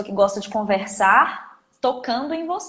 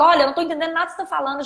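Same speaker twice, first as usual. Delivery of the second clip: rapid, higher-pitched complaint; mock exasperation; 5 semitones higher, much faster than usual. Listener to a mumbling phone caller, exasperated. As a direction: rush it out, fed up with the caller.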